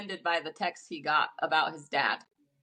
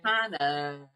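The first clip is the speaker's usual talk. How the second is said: put-on Valley Girl voice; 5 semitones lower than usual. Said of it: "the way she said it was so funny".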